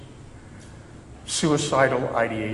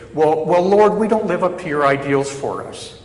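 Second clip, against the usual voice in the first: imagined confession; 3 semitones higher, 3 dB louder than usual. Retold or imitated. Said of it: "You would think we might say".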